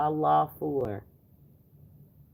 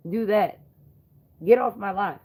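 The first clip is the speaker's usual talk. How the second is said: angry; 4 semitones higher, 4 dB louder than usual. Real, not acted. Shouting at a troll.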